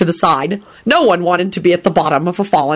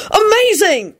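much higher-pitched amazed cry; excited shout; slower than usual. A narrator's reading. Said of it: "Arthur shouted as he came up".

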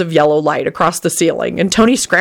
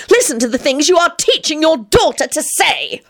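furious holler; 9 semitones higher than usual. A narrator's reading. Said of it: "Elizabeth hollered furiously".

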